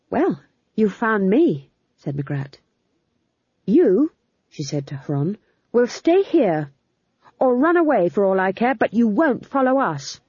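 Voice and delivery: commanding Magrat. Acted. Magrat orders Huron to stay, high and firm. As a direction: take charge coldly.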